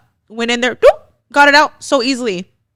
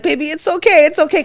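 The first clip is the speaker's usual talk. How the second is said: soothing; 7 semitones higher than usual. Retold or imitated. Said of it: "'Cause I was trying to ease her into it".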